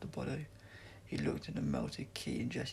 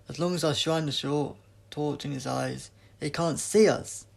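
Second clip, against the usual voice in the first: delighted yell; 3 semitones higher, 10 dB louder than usual. A narrator's reading. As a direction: shout it out with glee. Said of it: "The Doctor yelled in delight".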